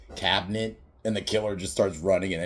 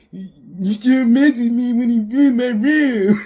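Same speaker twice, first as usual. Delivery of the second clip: much higher and louder, slow, laughing through it; laughing mock quote; 12 dB louder, slower than usual. Doofy's vacuum gag retold, laughing mock voice. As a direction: squeal the line out between laughs.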